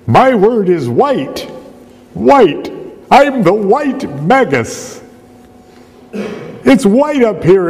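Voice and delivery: high, loud, drawn-out proclamation; mock yelling. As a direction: yell it slowly like a magus calling from on high. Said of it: "the Magus might be yelling".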